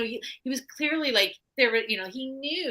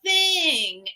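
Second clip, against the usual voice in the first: mock nonchalant excuse, pitched up, drawn out at the end; Russell Brand; 7 semitones higher, slower than usual. Podcaster mimicking a star excusing his behavior, mock nonchalant. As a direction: imitate a shrugged-off excuse in a higher voice. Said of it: "all he has to say is".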